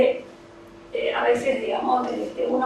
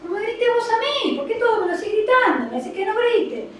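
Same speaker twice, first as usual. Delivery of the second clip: put-on high-pitched indignant child answering back; protesting child; 9 semitones higher than usual. Child complaining to the parent who shouts at them, indignant.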